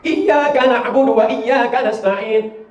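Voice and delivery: Iyyaka na'budu chanted slowly; slow recitation. Shown as a demonstration. Preacher reciting the verse, slow. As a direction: recite it with care. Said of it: "Kesalahan orang satu".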